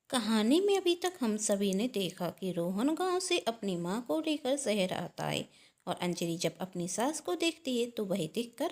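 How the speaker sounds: lilting storyteller recap; storytelling sing-song cadence; story narration. A narrator's reading. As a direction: narrate with rolling rises and falls.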